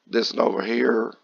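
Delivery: raspy just-woke-up voice; rough morning voice, still in bed. Real, not acted. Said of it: "Sorry for the raspy voice".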